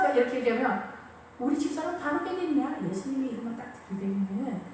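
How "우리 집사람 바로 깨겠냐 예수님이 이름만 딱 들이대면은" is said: softer, confiding husband's aside; hushed man-to-man persuasion; whispering husband. Retold or imitated. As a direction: lean in and murmur it to him. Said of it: "속삭이는 거예요".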